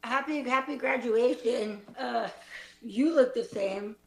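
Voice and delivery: low, mournful play-acting; very sad. Improviser greeting a classmate at graduation, very sad. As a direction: play it sad, dropping the pitch. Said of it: "we're all very sad".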